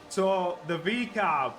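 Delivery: usual speaking voice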